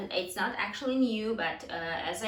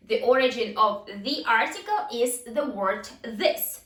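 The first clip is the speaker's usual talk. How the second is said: higher-pitched, deliberate teacher read-out; emphatic classroom question and answer; language drill delivery; 4 semitones higher, 4 dB louder than usual. Shown as a demonstration. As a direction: read out the drill with every word set apart.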